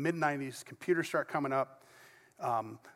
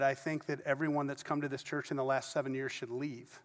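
flat quiet quote; 3 semitones lower, 6 dB quieter than usual. Retold or imitated. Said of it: "I can't do her accent".

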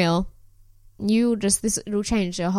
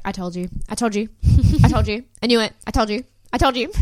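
smug I told you; 3 dB louder, faster than usual. Retold or imitated. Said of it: "she's looking at all the other girls and she's like".

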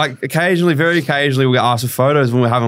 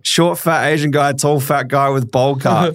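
higher, slower, blunt mock description; retelling the cafe lady's description of the boys, slow and higher; imitating the cafe lady; 4 semitones higher, slower than usual. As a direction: spell out the looks slowly like a puzzled customer. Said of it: "just the way that she's just like".

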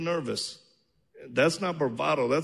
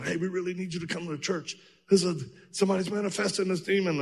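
quick, higher urgent pastor on the phone; 5 semitones higher, 3 dB quieter, faster than usual. Retold or imitated. Pastor pleading on speakerphone, quick and pitched up. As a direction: rush it like a worried pastor calling.

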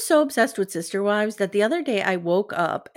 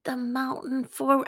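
a hint of a soft, slow Robin voice, softer; lightly voiced wife, drawn out and softer; mock Robin; 5 semitones higher, 6 dB quieter, slower than usual. Host imitating Robin praising Cody, lightly voiced and slow. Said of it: "Robin springs to life here".

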